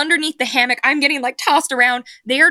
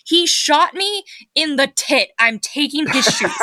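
retold scream; 4 semitones higher than usual. Outraged raider claiming his shoes, mild mock scream. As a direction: imitate an outraged scream at half force. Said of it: "Mozilla just screams".

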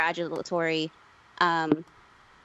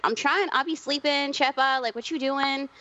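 mom's voice; 6 semitones higher than usual. Retold or imitated. Mom woken, annoyed.

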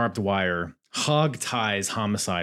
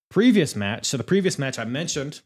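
ordinary talk

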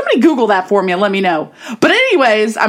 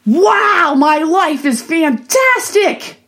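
mock epiphany; 5 semitones higher, much slower than usual. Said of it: "wake up and go".

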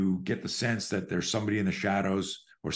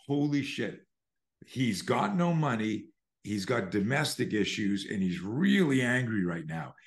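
bystander's inner voice; 2 semitones higher than usual. Acted. Voicing the lurker's thoughts.

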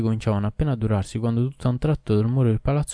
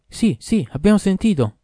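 high, loud chorus of fish; loud fish voices; 10 semitones higher, 6 dB louder than usual. A narrator's reading. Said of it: "a voce alta dissero".

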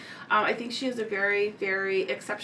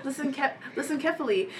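overdone British accent on listen carefully; posh-sounding UK accent, played for laughs; 2 semitones higher, faster than usual. Shown as a demonstration. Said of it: "I'm now saying it with an accent".

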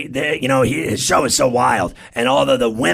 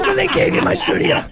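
high strained protest; comic indignation; faster than usual. Real, not acted. Host reminds guest they gave away his studio, indignant squawk. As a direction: press the grievance in a squawking pitch.

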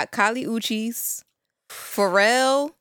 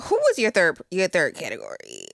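a little tipsy and sloppy; 5 semitones lower than usual. Real, not acted. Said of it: "I'm a little tipsy".

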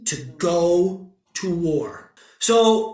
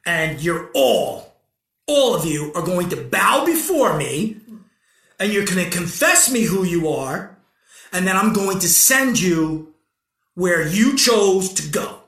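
dark lord; 2 semitones lower than usual. Acted. God declaring judgment.

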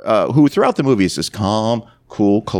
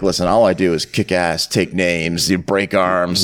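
lightly voiced tough guy; 6 semitones lower, slower than usual. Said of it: "He's like".

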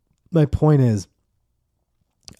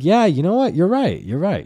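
much higher, giving in; mock concession; 11 semitones higher, 5 dB louder than usual. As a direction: throw your hands up and concede. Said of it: "And I was like".

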